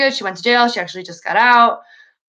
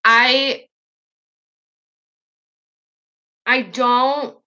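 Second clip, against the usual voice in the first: choked up; 3 semitones higher, much slower than usual. Real, not acted. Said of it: "once I calm down a little bit".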